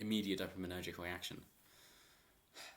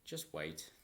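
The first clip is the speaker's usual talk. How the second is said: a knowing calm reply; lightly voiced calm fisherman; 3 semitones lower than usual. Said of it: "calmly turns and goes".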